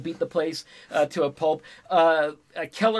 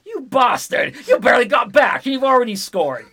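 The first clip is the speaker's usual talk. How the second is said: amazed shout; 7 semitones higher, 8 dB louder than usual. Retold or imitated. Chris floored, voiced in retelling.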